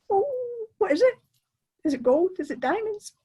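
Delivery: can't wait to know; thrilled fisherman guessing treasure; excited. Acted. Tom eager about the gift.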